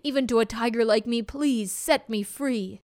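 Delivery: begging tiger, urgent and quick; pleading tiger voice. Acted. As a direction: beg like a trapped tiger. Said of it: "he began to plead and beg".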